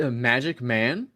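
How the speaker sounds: ordinary talk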